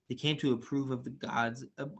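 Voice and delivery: reading through a yawn. Real, not acted. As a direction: yawn mid-sentence. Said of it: "sorry I'm yawning so much".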